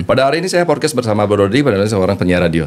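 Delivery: rushed, run-together intro. Shown as a demonstration. Host showing how a fast beat blurs the intro, rushed. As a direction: hurry through the podcast intro. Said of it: "Contohnya kayak gimana".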